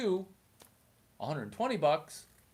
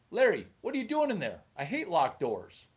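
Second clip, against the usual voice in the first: mock fatherly scolding; Chinese dad; 2 semitones higher, 4 dB louder than usual. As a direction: rattle it off like a dad at the locked door. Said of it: "I need a voice coach for a Chinese accent".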